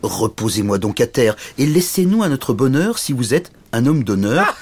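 lightly voiced earnest little knight; an understated proud, tiny suitor; dignified little knight. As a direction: plead your case with mild dignity. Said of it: "aussi dignement que possible".

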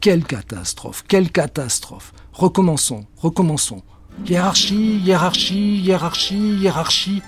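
hammed-up frantic witch; crying out. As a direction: shout the spell again in panic. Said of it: "cria-t-elle".

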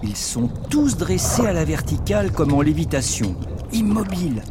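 calm documentary narration; nature documentary. A narrator's reading. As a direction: narrate like a wildlife film.

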